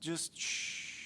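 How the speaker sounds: a soft, breathy hush; whispered shush. Real, not acted. Host hushing his viewers with a whispered shh. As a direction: hush them like a secret. Hushing the audience mid-ramble.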